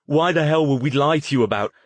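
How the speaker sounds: high, loud, fast indignant outburst; angry snap. Acted. Stone defending his honesty to Harrison, loud indignant outburst. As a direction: fire it back offended. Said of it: "he snapped".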